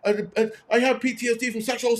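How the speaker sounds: high, stammering mock yell; retold yell. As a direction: imitate someone yelling in a stammer. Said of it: "yelling at me".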